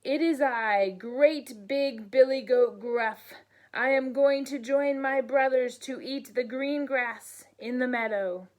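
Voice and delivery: loud, bold big goat. Acted. Big goat answers the troll boldly and loudly. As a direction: stand tall and announce yourself.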